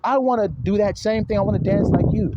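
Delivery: lightly acted high-pitched awe; imitated marveling. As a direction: marvel like an impressed friend. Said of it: "he's all, like, marveling".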